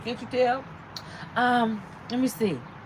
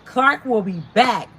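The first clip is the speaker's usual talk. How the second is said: chest out; 5 dB louder than usual. Real, not acted. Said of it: "Say it with your chest out".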